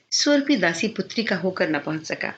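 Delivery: ordinary delivery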